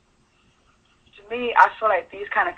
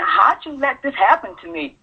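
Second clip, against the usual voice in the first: higher-pitched, pained question to a mother; reproachful, raised pitch; hurt questioning; 7 semitones higher than usual. Retold or imitated. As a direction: ask it as a wounded daughter. Imagined confrontation with mother.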